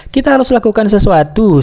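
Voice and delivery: high-pitched, lightly acted call to act; storyteller's mild rallying cry; urgent exclamation. A narrator's reading. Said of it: "seru kelinci lili".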